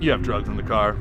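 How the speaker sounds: lightly acted officer, low questioning; retold officer. Officer to the carload of friends, low questioning. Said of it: "He's like".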